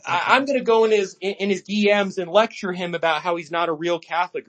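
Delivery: sarcastic imitation of a pearl-clutching user; mock complainer. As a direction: mimic a fussy online critic. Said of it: "just, like, complaining".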